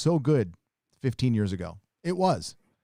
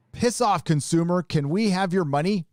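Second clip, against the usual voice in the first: high, sneering brush-off; mock corporate sneer; 6 semitones higher, 3 dB louder than usual. Mocking Disney's attitude to fans in a sneering voice. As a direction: sneer it like a greedy company telling customers off. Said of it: "That's been their attitude".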